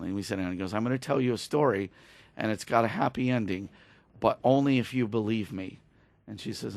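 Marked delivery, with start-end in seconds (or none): 0.7-5.8 softly retold promise; gentle reassurance. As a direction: ease her into it, a little softer.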